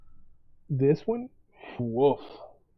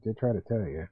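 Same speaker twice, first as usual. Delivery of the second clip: lower, softer, knowing I-told-you-so; mock smugness; 7 semitones lower, 6 dB quieter than usual. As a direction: say it low and quiet, a little smug. Imagined smug reply.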